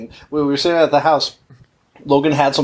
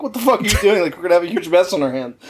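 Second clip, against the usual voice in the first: higher, fast frantic complaint; panicking plumber yelling at the dad, half-laughing; exasperated yell; 4 semitones higher, faster than usual. Retold or imitated. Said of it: "pulling his hair out of his head".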